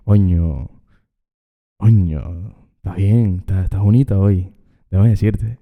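low, lightly seductive lonely uncle; a touch of a smooth talker. Pretend. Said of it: "pone voz de, de seria simp".

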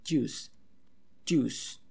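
"Jews" starting from tongue on palate, air released into the J; "Jews" twice as separate model words. Shown as a demonstration. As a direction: say "Jews" with an English "dj" onset, falling. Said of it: "ya después sueltas el aire".

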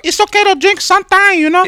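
put-on high-pitched comic Hispanic accent; mock Hispanic accent. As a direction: give friendly advice in a caricatured Hispanic accent. Joking put-on Hispanic accent bit.

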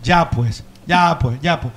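mock "ya pues"; mock Guayaquil drawl. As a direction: mimic how a local says "ya pues".

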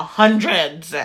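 mock annoyed customer, talking down; condescending. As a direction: imitate someone spelling it out for an idiot. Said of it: "said it to me like I was stupid".

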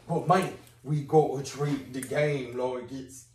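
a slow, lightly put-on London accent; terrible London accent. Stringer pleading with Avon in a put-on London accent. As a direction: back into the bad London accent. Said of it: "that terrible accent".

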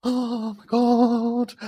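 very high, slow, stretched-out awe; stunned. Retold or imitated. Storyteller reacting to the coming-out plan, slow and stunned. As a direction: let it hang in disbelief.

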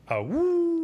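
high, loud "Ah, woo" call; secret wolf call. Retold or imitated. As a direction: hoot a secret signal at passersby. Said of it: "and I, I say".

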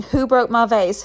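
storyteller voicing an upset mom's yell. A narrator's reading. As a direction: read the mother's angry outburst with some force. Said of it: "She starts yelling".

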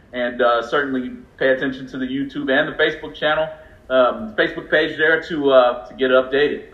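breathless after talking fast; winded, short of air; out of breath. Real, not acted. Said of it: "I, I'm out of breath".

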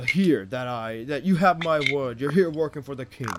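lightly voiced jovial king, pleased. King welcoming his hired adventurers, lightly jovial.

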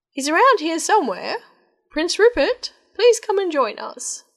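high, loud calling king. Acted. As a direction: call across the crowded hall. King calls for prince.

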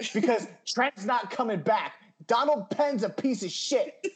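fired-up fan venting; passionate rant. Real, not acted. Fan railing at owner over tickets, passionate rant. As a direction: rattle on indignantly, punching the insults. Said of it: "Just passion".

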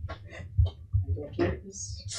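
scared. Acted. Creepy fog, scared voice.

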